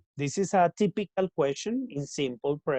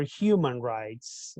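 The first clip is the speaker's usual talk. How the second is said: human rights said slowly, each word drawn out; slow careful vocabulary; 3 semitones lower, much slower than usual. Shown as a demonstration. Teacher introducing human rights to students, slow and careful. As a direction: spell out human rights for the class. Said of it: "much better".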